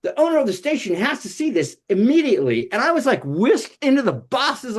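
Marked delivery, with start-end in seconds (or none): 0.0-2.7 high, fast, thrilled gush; excited boss. Retold or imitated. The promotions boss reacts to the puppet skit, high and thrilled. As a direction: blurt it out like you've found a star. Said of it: "the boss of promotions was like".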